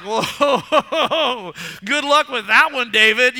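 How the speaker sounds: loud scoffing with a laugh; mocking laugh. Soldiers on the sidelines jeering at David, laughing loudly. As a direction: laugh him off the field. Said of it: "they're like".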